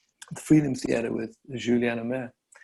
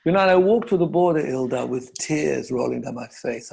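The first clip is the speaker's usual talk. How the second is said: emotional. Real, not acted. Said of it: "now I'm getting emotional".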